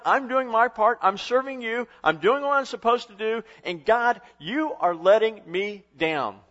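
loud, high complaint at God; mock frustrated complaint. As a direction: accuse God of letting you down. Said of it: "You ever felt like".

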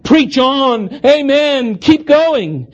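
high call-and-response cries; rapid-fire responses. Retold or imitated. Congregation answering every phrase, high rapid calls. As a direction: toss each one back quickly. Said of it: "rapid-fire responses".

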